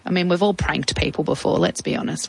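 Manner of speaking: ordinary talk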